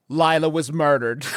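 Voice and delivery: breaking into laughter while retelling the news; words pushed out through a laugh. Real, not acted. Telling friends the murder twist, laughing loudly.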